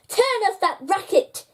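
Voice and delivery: sharp grumpy snap at the busker; mild grumpy snap; snapping. A narrator's reading. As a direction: bark it out like a grumpy old man. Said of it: "he snapped with a glare".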